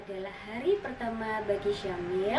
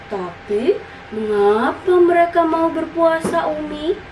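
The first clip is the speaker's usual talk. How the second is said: put-on high, louder child's voice, questioning; puzzled child; 6 semitones higher, 4 dB louder than usual. Syamil asks his mother again why people fast, puzzled child. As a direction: play a small boy pressing for an answer.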